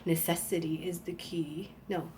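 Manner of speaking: hushed, voiceless whisper of the saying; whispered to herself. Shown as a demonstration. Trying to recall a saying, whispered. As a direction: whisper it as if recalling a half-remembered line. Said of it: "Necessity is the key to ingenuity".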